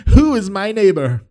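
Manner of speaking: high, loud, pompous BBC English; BBC accent. Acted. Proud law scholar asking Jesus, hammed-up BBC accent. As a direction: ham up a prideful BBC accent. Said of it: "You can judge my accents".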